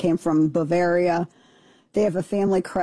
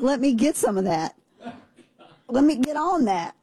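mock eager guy; 5 semitones higher than usual. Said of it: "He was like".

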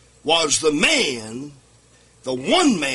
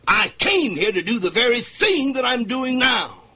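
preaching shout; 5 semitones higher than usual. Acted. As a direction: build to a full-force pulpit shout. Preacher voicing Jesus, rising climax.

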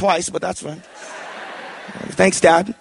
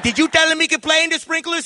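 much higher, sharp accusing question; interrogating mom; 10 semitones higher than usual. Retold or imitated. Mom confronting dad about the sprinklers, sharp accusing question. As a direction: grill the dad hard. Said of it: "She's like".

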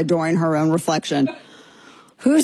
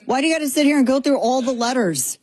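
exasperated; 7 semitones higher than usual. Real, not acted. Exasperated rant about the acronym.

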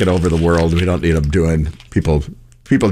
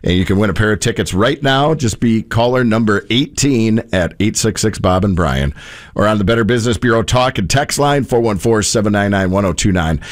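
light announcer read of a concert giveaway; radio promo read; 3 semitones higher than usual. Acted. Radio host announcing concert tickets to listeners, promo read.

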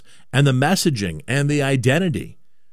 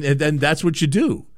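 ordinary talk

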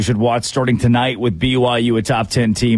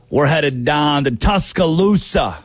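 slow, drawn-out hype announcer send-up; hammed-up sportscaster drawl; Pat McAfee impression; 3 semitones higher, slower than usual. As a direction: stretch out Tuscaloosa like a sports hype man. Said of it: "do my best Pat McAfee impression".

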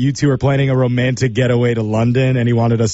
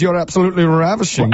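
put-on British accent; 3 semitones higher, faster than usual. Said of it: "use my absolute worst British accent".

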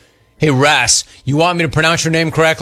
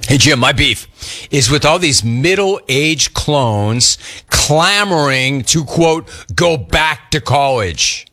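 slow, punchy complaint read with stretched key words; listener-beef read; slower than usual. Acted. Host reads a middle-aged clones beef, in a punchy complaint read. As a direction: draw out the gripe for effect.

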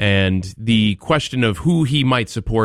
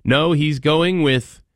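sarcastic, mock suspense; 5 semitones higher than usual. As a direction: build fake suspense, sarcastically. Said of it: "My sarcasm is deep".

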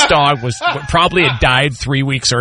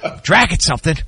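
dad impression laughing; 9 semitones higher, faster than usual. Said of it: "Go one more time".

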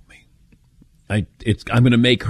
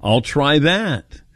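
mock grateful; 4 semitones higher, much slower than usual. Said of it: "and then I'd go".

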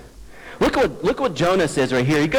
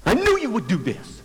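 mock accusation; 2 semitones higher, 4 dB quieter than usual. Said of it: "look at my wife and saying".

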